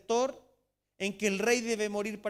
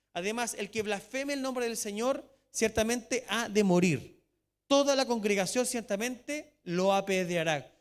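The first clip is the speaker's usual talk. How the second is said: louder, slow solemn reading of the law; scripture reading; 3 semitones higher, 6 dB louder, slower than usual. Acted. Pastor reading Leviticus to the church, slow and solemn. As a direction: proclaim the verse slowly.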